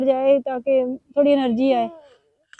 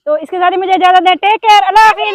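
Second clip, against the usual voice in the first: cheery sign-off; 5 semitones higher, 7 dB louder, faster than usual. Real, not acted.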